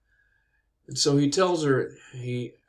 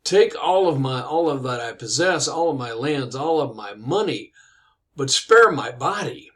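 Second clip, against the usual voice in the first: pleading knight; 5 dB louder than usual. Retold or imitated. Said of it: "was not too pleased about this".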